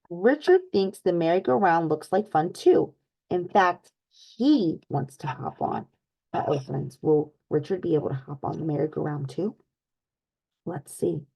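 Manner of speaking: lively storybook read-aloud for little ones; animated picture-book narration; reading to children. Acted. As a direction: read it like story time with kids.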